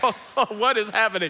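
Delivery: loud, high comic bewilderment; hammed-up confused exclamation; Santos. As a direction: ask it as a baffled bystander. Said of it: "Santos is like".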